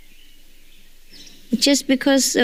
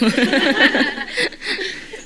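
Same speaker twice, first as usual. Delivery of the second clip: laugh; 6 semitones higher than usual. Real, not acted. Joking about meditating upside down.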